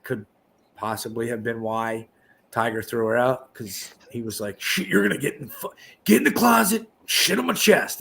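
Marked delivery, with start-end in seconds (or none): 4.6-8.0 high frantic yelling; panicked. Retold or imitated. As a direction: panic like you're hiding someone. Retold Tiger panicking.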